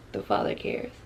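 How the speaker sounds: soft unvoiced echo of the Father cares; hushed reverent whisper. Real, not acted. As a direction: breathe it like a private prayer. Repeats phrase, second whispered.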